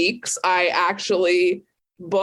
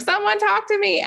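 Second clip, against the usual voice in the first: high, frantic plea ending in a squeal; mock panic; 13 semitones higher than usual. Away message begging for help over a mouse, frantic. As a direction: beg for anyone online, half-hammed terror. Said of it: "my away message was like".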